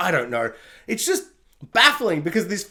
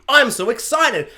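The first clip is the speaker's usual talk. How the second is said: higher, slow, drawn-out fan excitement; imitated excited fan; mock excitement; 5 semitones higher, 4 dB louder than usual. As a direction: gush it slowly like an online fan. Voicing excited online buzz.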